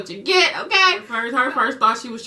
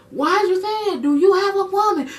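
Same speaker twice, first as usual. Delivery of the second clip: pressing mom; 9 semitones higher than usual. Retold or imitated. Mom pressing sister, voice raised.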